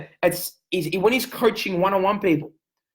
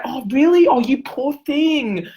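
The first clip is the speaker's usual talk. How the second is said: mock sympathy; 4 semitones higher, 4 dB louder, slower than usual. Mocking fake sympathy.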